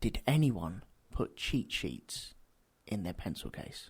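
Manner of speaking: low, hushed whisper under the breath. Podcast guest asking the group a question about school pencil cases, whispering. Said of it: "I'm whispering now".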